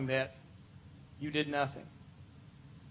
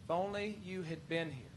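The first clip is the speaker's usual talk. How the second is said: much softer, drained after the outburst; subdued plea; 12 dB quieter than usual. Acted. Preacher as grieving Martha, after shouting at Jesus, hushed plea. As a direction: let the reproach sink to a quiet plea.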